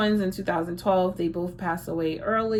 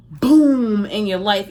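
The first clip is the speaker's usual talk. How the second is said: loud slow boom; 7 dB louder, slower than usual. Acted. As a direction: drop the word boom slow and loud like a thunderclap. Tarot reading, sudden lightning strike.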